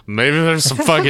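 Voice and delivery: high, loud, cracking up mid-phrase; laughing while talking. Real, not acted. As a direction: try to get it out through laughter. Cracks up at own slip.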